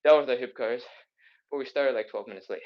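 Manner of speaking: breathless after rushing in; out of breath. Real, not acted. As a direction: talk while winded. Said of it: "I'm super out of breath".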